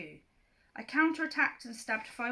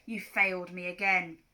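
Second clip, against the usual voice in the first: war god bellowing; 2 semitones lower, 5 dB louder than usual. Acted. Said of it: "the war god bellowed".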